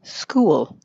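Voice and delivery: "school" as "skoo-wul"; diphthong with mini syllable. Shown as a demonstration. Coach contrasts with student's clip, "school" with added mini syllable. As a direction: glide from "oo" through a schwa into L in "school". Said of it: "Listen to the difference".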